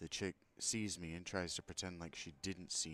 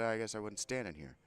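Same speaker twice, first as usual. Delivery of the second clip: pointed complaint; 5 semitones higher, 6 dB louder than usual. Retold or imitated. Repeats the complaint to man.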